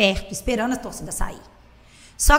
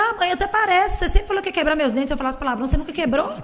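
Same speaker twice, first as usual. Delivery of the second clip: higher, quick-fire comeback; retold defiant retort; 5 semitones higher, faster than usual. Daughter to mother about swearing, higher defiant retort. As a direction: answer back to mum, pitched up and rattling on.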